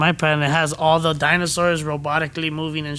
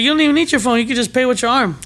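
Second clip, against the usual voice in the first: pitched-up pushy seller; high mock salesman voice; 6 semitones higher, faster than usual. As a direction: sell it high and bright. Imagined future salesperson voice.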